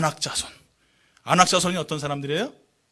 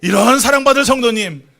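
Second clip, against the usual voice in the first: blessing greeting; 5 semitones higher, 12 dB louder than usual. Shown as a demonstration. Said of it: "옆에 분 성도 바라보면서 인사합니다".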